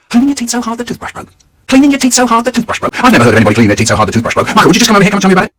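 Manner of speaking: very loud, rapid-fire incredulous dad; fast, booming repeated scolding; ranting dad. Acted. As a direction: rattle it off as an outraged father's tirade. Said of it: "He breezes in and he says".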